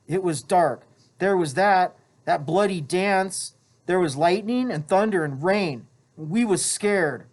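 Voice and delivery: put-on boy recalls terror of the night; Piggy's voice. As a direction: relive the dark night uneasily.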